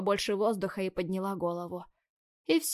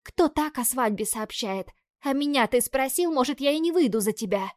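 indignant; 5 semitones higher, 5 dB louder than usual. A narrator's reading. Bride indignant about surprise wedding.

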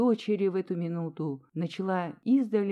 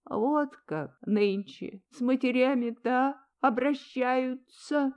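reproachful; 6 semitones higher than usual. A narrator's reading. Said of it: "с упрёком вздыхая".

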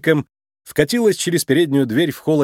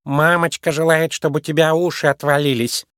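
lightly voiced child; 2 semitones higher than usual. A narrator's reading. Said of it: "Её маленький ребёнок посмотрел на Джуди и сказал".

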